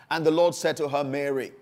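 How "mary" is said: Mary said soft and low, like a name called many times; a hint of a tender call of Mary; gently familiar. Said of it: "in that so familiar way".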